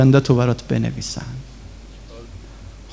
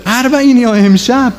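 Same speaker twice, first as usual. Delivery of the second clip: higher, urgent preaching cry; impassioned preaching; 8 semitones higher than usual. Acted. Preacher urging mourners about Arbaeen, raised and fervent. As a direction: call out to the congregation with fervour.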